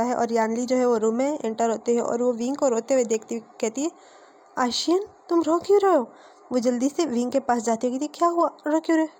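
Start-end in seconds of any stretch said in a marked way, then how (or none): 4.6-6.1 mildly acted concern, pitched higher; worried questioning. Sister finds brother crying. 8.1-9.1 higher-pitched, lightly acted concern; worried questioning. Sister hurries to crying brother.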